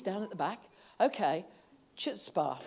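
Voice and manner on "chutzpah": chutzpah with a throaty ch at the start; pronounced chutzpah. Shown as a demonstration. Preacher teaching the congregation a Yiddish word, careful pronunciation. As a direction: say chutzpah as KHOOTS-pah. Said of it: "pronounced chutzpah".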